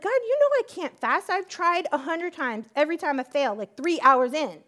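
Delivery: high, loud complaining plea; whiny protest. Retold or imitated. Woman complaining to God she can't fast, whiny. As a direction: whine about every failed attempt.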